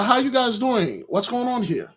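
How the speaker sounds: soft, settled, mildly puzzled voice; calmed down. Acted. Saul greeting the musicians, now calm. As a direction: ask it mildly, the rage gone. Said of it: "Saul started to calm down".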